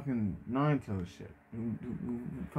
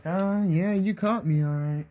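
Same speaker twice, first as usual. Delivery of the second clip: high, bashful, caught out; sheepish high voice, a touch louder; 8 semitones higher, 4 dB louder than usual. Acted. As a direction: laugh it off like you've been caught, much higher. Naruto caught, scratches his head.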